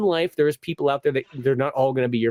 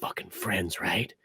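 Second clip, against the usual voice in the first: low menacing friend; 6 semitones lower than usual. Retold or imitated. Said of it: "she's like".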